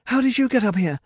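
high, loud shocked demand; screaming. A narrator's reading. Medea startled by her sister on the dragon, screaming. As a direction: yell the question, startled. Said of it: "she screamed".

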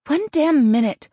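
high, very loud protest; indignant yell. A narrator's reading. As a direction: yell to halt the game. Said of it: "Taryn yelled".

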